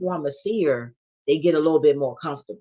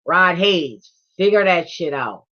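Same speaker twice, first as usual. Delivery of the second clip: playful command; 2 semitones higher, 7 dB louder, slower than usual. Real, not acted. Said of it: "When I said figure it out".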